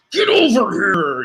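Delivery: slow, drawn-out Scorpion call. Retold or imitated. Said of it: "in the words of, uh, Scorpion from Mortal Kombat".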